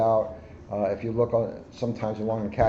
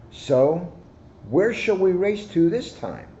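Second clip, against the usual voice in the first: cocky hare; 9 semitones higher, 4 dB louder, slower than usual. Acted. Hare asking where to race.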